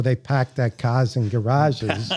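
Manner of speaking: Boston r-dropping on cars; lightly mocked Boston accent. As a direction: imitate a Bostonian saying it. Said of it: "we have Boston".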